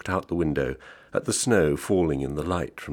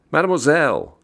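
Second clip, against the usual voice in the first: loud, high-pitched summons; calling out; 12 semitones higher, 8 dB louder than usual. A narrator's reading. Mister Wheeler's call to the waitress who went away, calling out. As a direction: call the waitress over from across the room. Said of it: "he called".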